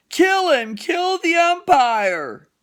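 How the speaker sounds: high, loud heckle from the stands; spectator's shout. Acted. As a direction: yell it out like an outraged fan. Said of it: "shouted someone in the stand".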